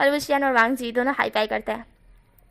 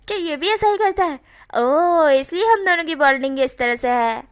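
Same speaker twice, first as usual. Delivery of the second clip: excited realization; 3 semitones higher, 5 dB louder than usual. Acted. Teasing realization at the bond.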